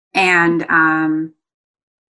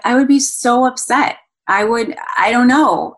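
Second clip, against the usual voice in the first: put-on child voice upset; 6 semitones higher than usual. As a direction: lightly mimic a fretful child. Daughter quoted, upset child.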